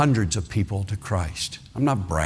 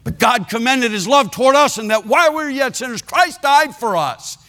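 high, chanted verse pushed out through gritted teeth; preaching through gritted teeth; 14 semitones higher, 3 dB louder than usual. Retold or imitated. Preacher forcing out the love verse to Willard through gritted teeth. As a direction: force out the love verse though you're furious. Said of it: "but I did it".

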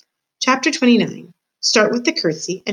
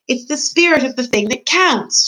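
higher, louder repeat so she'll hear; raised-voice repetition, spelled out clearly; shouted; 7 semitones higher, 4 dB louder than usual. Acted. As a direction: shout each word to someone hard of hearing. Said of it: "shouted P".

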